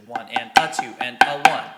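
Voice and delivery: loud count, every "a" punched; accented third partial. Shown as a demonstration. Drum teacher repeating third measure, stress on "a". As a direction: hit each "a" hard and loud in "One and a two and a one". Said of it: "we have the accent on the third partial".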